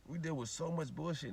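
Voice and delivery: soft tired echo; soft repeat. Real, not acted. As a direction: let it sink in softly. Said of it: "repeated softer".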